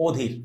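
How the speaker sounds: "অধীর" opening on a rounded o; corrected "অধীর" with closed o; standard pronunciation demo. Shown as a demonstration. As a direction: say "অধীর" as odhir. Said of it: "general একটা উচ্চারণ আছে ওইটা করবা".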